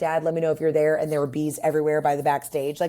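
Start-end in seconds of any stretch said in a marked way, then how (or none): none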